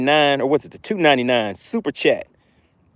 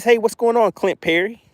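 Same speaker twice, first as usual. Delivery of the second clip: fish voice; 9 semitones higher than usual. Retold or imitated. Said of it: "He says".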